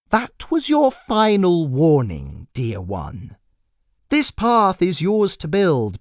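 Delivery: a creepy clown savouring each word; menacing jester. Acted. Jester's lines voiced by narrator.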